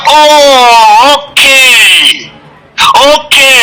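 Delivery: drawn-out "oh, okay" of realisation; dawning realisation. Retold or imitated. Recalling when things started unfolding, dawning realisation. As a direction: let the penny drop, lingering on it.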